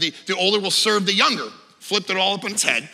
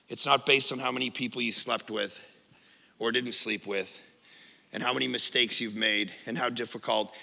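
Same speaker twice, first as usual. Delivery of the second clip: low, soft, grave preaching; solemn hush; 9 semitones lower, 5 dB quieter than usual. Real, not acted. Pastor tells the church salvation is not earned, hushed and solemn. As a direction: bring it down to a quiet, weighty point.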